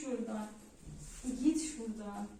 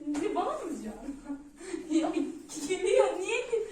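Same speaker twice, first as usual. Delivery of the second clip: laughing through frustration; exasperated laugh breaking through words; angry laughter; 2 semitones higher than usual. Real, not acted. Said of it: "Ben sinirden gülüyorum".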